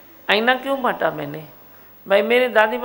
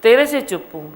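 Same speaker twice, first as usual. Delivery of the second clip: loud defiant declaration; 6 dB louder than usual. Acted. Guru playing the calm one toward the offender, loud defiance. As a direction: fling it at him, proud and loud.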